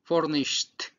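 "furnished" ending on a crisp T, "furnisht"; final T sound. Shown as a demonstration. Teacher demonstrating to students the T ending, "furnisht". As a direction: clip the end of "furnished" into a T. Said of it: "le pongo una T para que pueda decir furnished".

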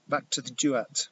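loud commanding roar. Acted. Father commands the fiery man to leave, loud roar. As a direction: drive the spirit back with force. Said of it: "my father roared".

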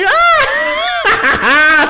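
very high, loud shriek; high shriek breaking into laughter; scream. Real, not acted. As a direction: let out a piercing excited scream. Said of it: "eu tô gritando".

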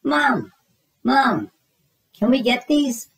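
put-on high, eager little-kid begging; pleading. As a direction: beg Mom with a high whiny voice. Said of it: "Jasper pleaded".

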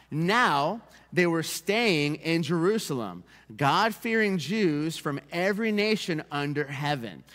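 slow, measured Bible reading; scripture reading. Acted. Pastor reads scripture to congregation, slow and measured. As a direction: read the verse out slowly to the congregation.

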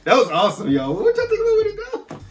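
loud, high hype to the viewers; excited hype. Real, not acted. Host hypes the viewers after the performance, loud and excited. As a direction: pump up the audience.

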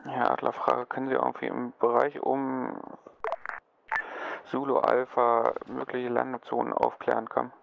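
formal radio request; radio procedure, ending on over; military radio. Acted. Command asks over radio. (Funkverkehr, sachlich und förmlich)

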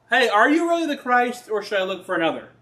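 a hint of a worried John; urgent question. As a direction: press him hard: are you really the one. Paraphrasing John's doubt.

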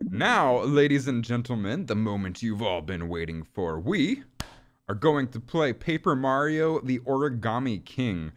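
showman announcing the main event; light ringmaster-style introduction; mock announcer. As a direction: build up the big reveal, drawing out the title.

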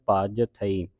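ਭਜ ਥਈ as two distinct words; ਥਈ detached from ਭਜ; separate words. Shown as a demonstration. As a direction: finish ਭਜ, then say ਥਈ apart. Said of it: "ਸੰਬੰਧਕ ਲਾ ਕੇ ਉਚਾਰਨ".

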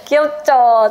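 giggling, high and loud; laughing. Real, not acted. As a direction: laugh through the question. Shows cute case, laughing.

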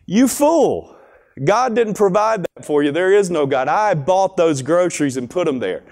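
lightly voiced smug know-it-all; smart aleck. Atheist neighbor taunting the praying mom, mildly mocking. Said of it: "being a smart aleck".

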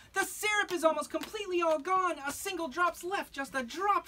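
high fretful cheese character; Miss Brie's worried gossip. Acted. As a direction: deliver the bad news like a fussy neighbor. Neighbor cheese breaks the news.

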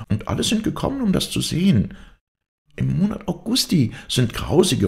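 high, excited voice of a rumour-monger; agitated gossiping maid. A narrator's reading. Maid tells the others of horrible omens, high agitated voice. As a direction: spin out dire omens, pitched high.

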